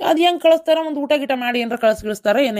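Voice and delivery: husband's outraged retort; indignant exclaim. Acted. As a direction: throw the question up high in disbelief. Husband scolds wife.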